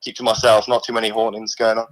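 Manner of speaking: a lightly put-on, weak Australian accent; a mock Aussie bloke voice, barely there; poor Australian accent. A severed hand calls the stream in a poor Australian accent. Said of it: "I put a bit of a voice on it".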